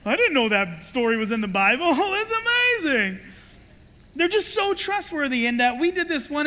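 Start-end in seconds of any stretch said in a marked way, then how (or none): 0.0-3.2 put-on wide-eyed childlike wonder; amazed kids. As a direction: sound like a delighted child. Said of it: "they were like".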